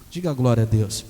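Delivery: low, booming call for a response; deep-pitched, forceful pulpit call; loud call to congregation. Real, not acted. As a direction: belt out a congregational prompt. Preacher calls congregation to respond.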